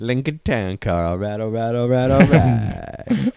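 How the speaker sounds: lightly voiced slow drawling all right, all right; a hint of the McConaughey drawl, slow; Matthew McConaughey impression. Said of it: "Matthew McConaughey".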